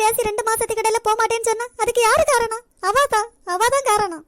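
heated accusation. Acted. Mother blaming the bride to daughter-in-law, heated and loud. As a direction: point the finger at the bride.

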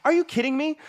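incredulous high-pitched mock yell; imitated yelling. Imitating a friend's reaction to the shout out, mock yelling. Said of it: "start yelling in the, in the thing".

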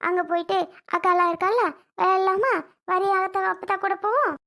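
high, coaxing grandma voice; coaxing sweet talk. Acted. Grandmother coaxing granddaughter to aunt's house, sweet and high. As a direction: lure the child along sweetly, lifted up high.

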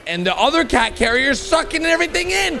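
ordinary delivery

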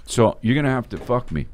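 low dominant voice. Retold or imitated. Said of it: "he's just like".

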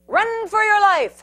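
high, loud panicky cries; frantic little critter voice; cry for help. Acted. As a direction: squeal for help in fright. Prairie dogs flee falling ball.

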